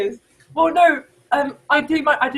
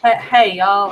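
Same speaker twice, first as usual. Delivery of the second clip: louder Texan greeting; Texan accent; 5 dB louder, slower than usual. Acted. Demonstrating a Texan to friends, louder Texan accent. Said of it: "I will end this with a Texan, Texan accent".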